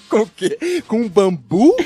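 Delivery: loud, disbelieving; can't believe it; incredulous question. Real, not acted. Incredulous at gorilla story.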